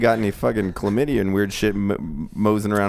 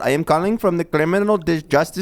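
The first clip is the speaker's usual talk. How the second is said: mock scam caller; 6 semitones higher than usual. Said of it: "the tax goes".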